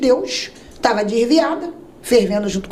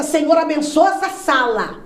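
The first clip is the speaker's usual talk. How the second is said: mock preacher prayer; 4 semitones higher than usual. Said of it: "que ele começa".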